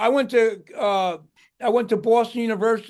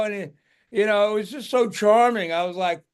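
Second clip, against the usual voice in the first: ordinary talk, nothing marked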